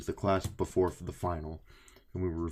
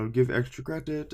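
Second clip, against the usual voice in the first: lightly imitated Eastern European accent, raised pitch; Doofenshmirtz-like accent; 6 semitones higher, 4 dB louder than usual. Professor offering students extra credit, imitated Doofenshmirtz-like accent. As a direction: offer it in a weird, vaguely Russian accent. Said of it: "Sounds like Doofenshmirtz".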